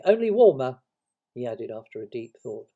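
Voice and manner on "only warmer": high, loud squeaky afterthought; helpful Piglet. Acted. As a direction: chip in eagerly. Piglet adds to the explanation.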